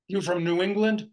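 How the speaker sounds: loud, high, barking challenge; barked question. Acted. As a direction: bark it at her like an old soldier. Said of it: "barked the tenth district".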